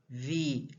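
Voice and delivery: Viagem split as VI, A, GEM; syllable breakdown. Shown as a demonstration. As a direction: sound out Viagem slowly in separate syllables. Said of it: "Eu falo ela mais forte".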